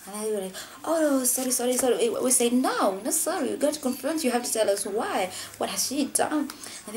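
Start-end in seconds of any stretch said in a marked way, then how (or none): 0.8-2.1 higher-pitched mock pleading; retold hasty apology. Culprits retold apologising when confronted. 2.5-6.5 raised pitch, refusing the apology; retold indignant confrontation. Friends retold confronting the culprits.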